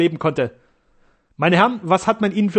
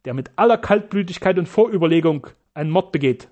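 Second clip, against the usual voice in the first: raised, urgent accusation; agitated; 4 semitones higher, 3 dB louder than usual. Acted. Sternau agitated, calls the surgeons murderers, raised voice. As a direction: accuse them with rising heat. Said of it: "meinte Sternau ganz erregt".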